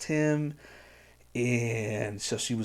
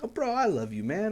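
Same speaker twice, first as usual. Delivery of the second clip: imitating; 9 semitones higher than usual. Imitating casual bro affection.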